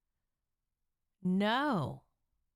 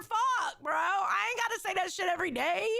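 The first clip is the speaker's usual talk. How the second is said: mock outraged shout; 3 semitones higher than usual. Friend playing Dylan refusing daily "I love you", mock shouting. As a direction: yell it like the fed-up husband, half laughing. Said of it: "Dylan's like".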